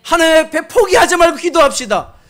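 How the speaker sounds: ordinary talk, nothing marked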